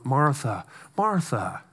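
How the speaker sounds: "Martha, Martha" said soft and low, fading; tender pet-name repetition; gentle endearment. Retold or imitated. Jesus gently soothing Martha, soft and tender. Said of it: "terms of endearment".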